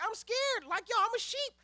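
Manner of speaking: high, small scared voice; scared lion cub. Retold or imitated. Lambert cowering from the wolf, high and scared. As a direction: cower in the corner, squeaking.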